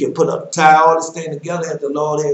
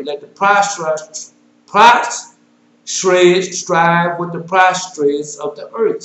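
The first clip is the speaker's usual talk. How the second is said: solemn scripture reading. Acted. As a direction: proclaim the verses like a preacher. Preacher reads scripture aloud.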